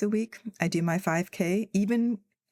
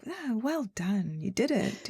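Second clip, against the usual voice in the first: a quiet, unexcited pat on the back; lightly voiced mild British well done; understated British coach; 3 semitones higher, 4 dB quieter than usual. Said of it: "He's like".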